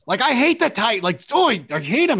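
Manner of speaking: high, loud, eager gush of agreement; mock excited agreement. Telling an NFL player he hates that rival school too, hammed-up high excitement. Retold own eager reply.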